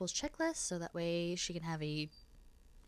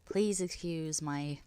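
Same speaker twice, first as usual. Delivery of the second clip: whisper; slower than usual. Real, not acted. Whispered apology, sick voice.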